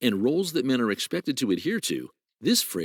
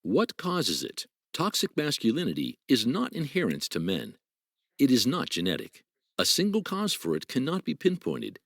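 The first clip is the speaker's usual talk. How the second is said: explainer narration. Acted. Read clip narration.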